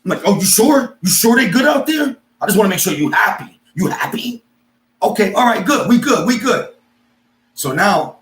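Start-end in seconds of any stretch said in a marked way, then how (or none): 0.2-6.7 high, loud mock concern; sarcastic double-checking. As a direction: press with exaggerated false concern.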